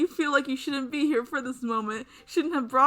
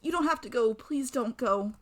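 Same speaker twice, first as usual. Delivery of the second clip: higher-pitched pleading, a touch of tears; climbing, pleading fear; 5 semitones higher than usual. Acted. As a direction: beg her not to leave, voice rising. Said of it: "She's crying as she talks, her voice climbing higher with fear".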